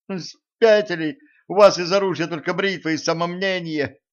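high-pitched, incredulous protest; indignant outcry. A narrator's reading. Zhenka protests the reckless jump, indignant.

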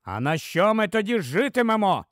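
sudden flare-up. Acted. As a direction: flare up at the wife. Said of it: "розпалився раптом чоловік". (трохи роздратовано, запально)

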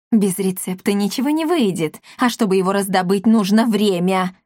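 ordinary delivery

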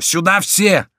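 high-pitched urgent summons; rally everyone with a shout. A narrator's reading. Monsoreau calls all his men to him, high shout. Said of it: "кричал Мансаро".

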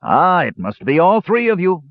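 high, lightly voiced insistent dwarf; interrupting dwarf. A narrator's reading. Dwarf breaking into the brothers' quarrel, insistent. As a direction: butt in and insist. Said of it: "Dugan interrupted".

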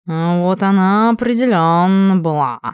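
slow smug cat purr. Acted. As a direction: purr it slowly, smugly. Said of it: "промурлыкал Эль Бандита".

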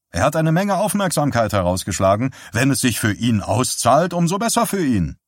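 a hint of a condescending husband; husband Walt. Husband lecturing his wife about a trick, lightly voiced.

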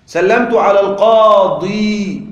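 القاضي drawn out on a long ī, no vowel after it; long final ي. Shown as a demonstration. Teacher setting up the kasra case, القاضي held long on ī. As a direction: hold the plain ī ending of القاضي. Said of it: "الياء المفروض يكون تحتها كسرة".

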